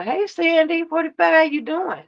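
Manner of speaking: high, singsong imitation of a polite hello; respectful greeting. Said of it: "you got on respectfully".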